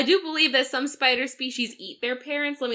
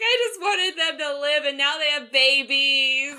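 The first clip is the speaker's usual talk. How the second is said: mock sobbing. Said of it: "She's like".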